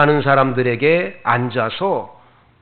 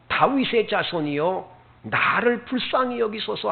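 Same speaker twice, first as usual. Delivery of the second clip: pleading call rising high, without real volume; lightly acted cry for mercy; mock crying out; 5 semitones higher than usual. Blind beggar crying out harder to Jesus, mock cry. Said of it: "크게 소리질러".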